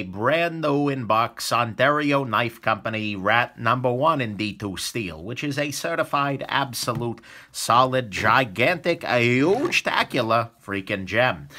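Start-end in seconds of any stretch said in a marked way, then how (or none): 5.2-11.5 excited. Real, not acted. Hyping the giveaway knife.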